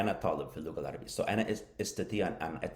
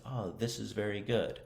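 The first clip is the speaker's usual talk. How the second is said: lightly voiced model speaker, higher pitch; someone overheard; 4 semitones higher than usual. Shown as a demonstration. Teacher quotes someone to be imitated, lightly voiced overheard speaker. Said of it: "I hear someone say".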